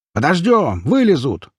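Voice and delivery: high calls from behind a door; shouting. A narrator's reading. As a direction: call it out to the others, pitch up. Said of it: "крикнули за входной дверью".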